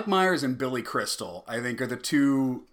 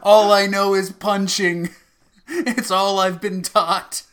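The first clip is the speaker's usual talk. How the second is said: mock dumb boxer; 6 semitones higher, 7 dB louder than usual. Voicing punch-only George Foreman.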